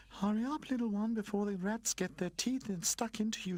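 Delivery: urgent streetlight calling. Acted. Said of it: "she called to him".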